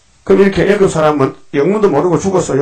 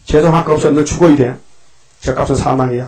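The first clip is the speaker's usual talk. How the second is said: stern God. Retold or imitated. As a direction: pronounce the sentence sternly. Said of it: "하나님이 화를 내십니다".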